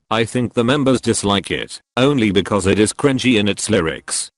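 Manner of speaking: synthetic text-to-speech voice; robot voice. Acted. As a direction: speak like a computer voice. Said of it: "I'm using this robot voice".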